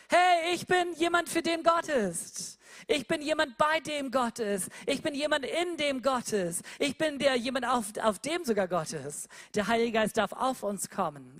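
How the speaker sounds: joyful declaration. Acted. Believer answering who am I, elated and high. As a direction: proclaim it with joy.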